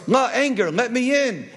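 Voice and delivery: high-pitched urgent plea; pleading. Acted. Love begs passing Anger for help, urgent pleading.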